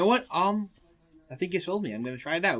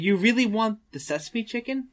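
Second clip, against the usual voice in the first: incredulous waiter voice; 10 semitones higher, 6 dB louder than usual. Retold or imitated.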